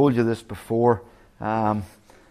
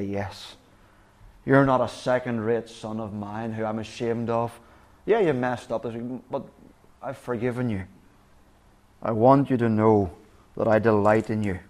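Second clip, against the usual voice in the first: tender father. Acted. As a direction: speak it like a father embracing his son. Father voiced embracing his son.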